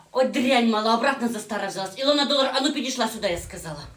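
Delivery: loud, raging stepmother; furious yell. Acted. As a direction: bellow at the brat to come here. Stepmother yells at girl.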